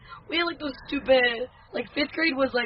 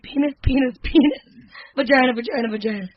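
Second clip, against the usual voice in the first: imitating awkward teacher. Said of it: "she's just like".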